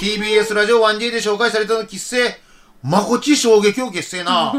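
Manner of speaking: letter read out in a Kagoshima accent; Kagoshima dialect. Real, not acted. Host auto-translating a listener's letter, Kagoshima dialect. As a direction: turn standard Japanese into Kagoshima dialect as you read. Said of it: "標準語みたいに自動的に".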